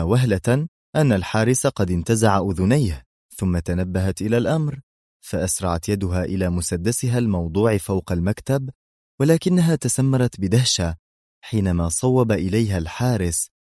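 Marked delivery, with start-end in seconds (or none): none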